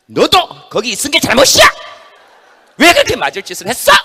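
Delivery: loud, high scolding; angry scolding. Acted. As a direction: tear into the injured hand. Head scolding left hand. (다친 왼손을 나무라는 큰 호통)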